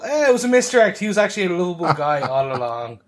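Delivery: put-on English accent, starting high and dropping; cheery put-on English reveal; mock English accent. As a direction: playfully fake an English accent. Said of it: "I love your English accent".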